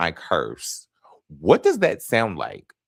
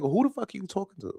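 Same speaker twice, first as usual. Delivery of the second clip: put-on New York accent; 12 semitones higher, faster than usual. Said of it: "really rough New York accent".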